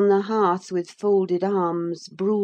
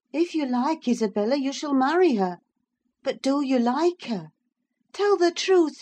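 higher woman's voice; heightened indignant woman; Catherine; 6 semitones higher than usual. A narrator's reading. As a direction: protest back at him.

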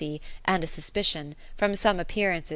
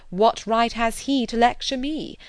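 young Emma mimicked; 5 semitones higher, 5 dB louder than usual. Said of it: "very natural for you to say".

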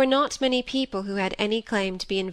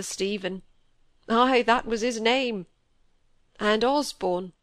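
put-on old Yorkshire squire, full of grief; heavy-hearted old man's lament; grieving old squire. A narrator's reading. Squire grieving over grandson.

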